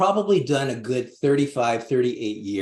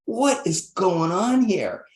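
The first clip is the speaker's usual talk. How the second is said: higher, alarmed, imitating his own panic; retold freaking out; 6 semitones higher than usual. Man retelling plant medicine trip thinks he's in a war zone, mock panicked. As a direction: relive the fright of breaking glass, half-acted. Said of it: "I'm freaking out".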